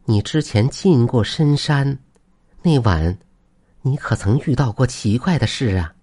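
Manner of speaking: lightly voiced surprised wife; startled wife. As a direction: probe with mild alarm, voice lifted. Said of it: "王氏闻言后大吃一惊".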